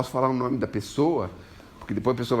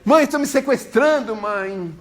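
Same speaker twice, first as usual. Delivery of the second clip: high, loud desperate plea; panicked son; 11 semitones higher, 6 dB louder than usual. Retold or imitated. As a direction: scream to mum that you're being kidnapped. Son cries he's kidnapped.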